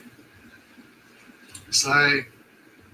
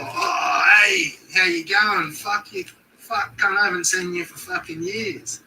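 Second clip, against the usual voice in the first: high, loud, overjoyed swearing hello; delighted bellow at a long-lost friend; friendly shouted greeting; 5 semitones higher, 4 dB louder than usual. Shown as a demonstration. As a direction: yell it like spotting an old mate. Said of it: "it's just how you say it".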